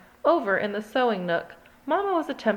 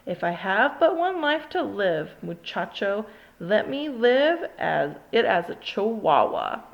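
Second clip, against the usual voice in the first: a light mock Spanish accent; hint of a hammed-up Spanish accent. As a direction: roll it out with a playful Spanish accent. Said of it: "using his very best Spanish accent".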